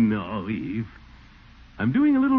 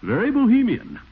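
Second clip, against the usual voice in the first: wry aside; 11 semitones higher, 5 dB louder than usual. Acted. Teasing aside about untidy parlor.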